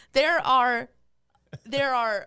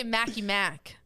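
lightly put-on Boston accent, dropped R; slower than usual. Shown as a demonstration. Showing how locals say it, light Boston accent. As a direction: say "Mackie Mac" the Boston way. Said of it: "how do you say that in a Boston accent".

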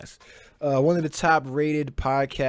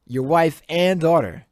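outraged repeat; 5 semitones higher, 7 dB louder than usual. Shown as a demonstration. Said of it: "repeats louder, outraged".

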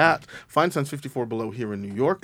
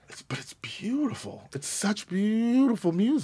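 breathy hushed praise, almost unvoiced; awed whisper; 8 semitones higher, 6 dB quieter than usual. Real, not acted. Host hushed in awe of the score, whispering.

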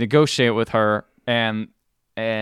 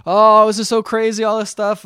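high, hammed-up exclamation; overacting wife; 8 semitones higher, 5 dB louder than usual. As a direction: imitate her making a big fuss, pitched up.

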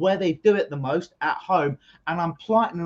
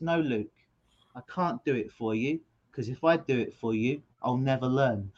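a hint of a lower, softer nan; gently firm, like a wise granny; lightly voiced grandmother saying no; calm grandmother; 5 semitones lower, 4 dB quieter than usual. Grandmother calmly refusing the child.

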